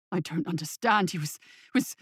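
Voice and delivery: low, trailing off in confusion; bewildered, faltering. Acted. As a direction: lose the thread, voice sinking.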